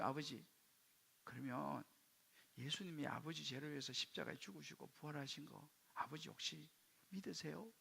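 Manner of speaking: very soft, careful asking; gentle, hushed question to a father; hesitant question. Retold or imitated. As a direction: ask haltingly, as if it is hard to say. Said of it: "어렵게".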